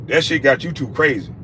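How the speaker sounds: usual speaking voice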